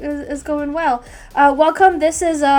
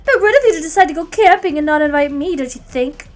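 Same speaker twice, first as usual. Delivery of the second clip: unhinged villain; 2 semitones higher, 5 dB louder than usual. Acted. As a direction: savor each word like a madwoman. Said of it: "a demented voice".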